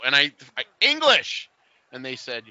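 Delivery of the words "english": hopeful question. Retold or imitated. Asking clerk if she speaks English.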